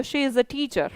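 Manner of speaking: slow, soft teacher model; slow model sentence. Shown as a demonstration. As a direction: say it slowly for the class to copy. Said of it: "Is लगाएंगे". (धीरे-धीरे सिखाता हुआ वाक्य)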